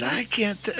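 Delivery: breathy whisper while searching for a name; whispered groping. Retold or imitated. Fumbling for an old classmate's name, whispering. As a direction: hush it as the name slips away.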